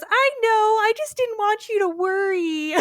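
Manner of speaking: high, crying, half-shouted; tearful dog voice. Retold or imitated. The dog answers Tendi while floating away, tearful and high. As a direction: sob it out through laughter. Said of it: "and goes".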